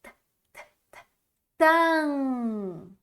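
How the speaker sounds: t, t sussurrado, depois tan nasal; sounding out. Shown as a demonstration. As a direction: solte o t sem voz e feche em tan. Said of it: "Tenho a letrinha T e esse an". (soletrando som a som)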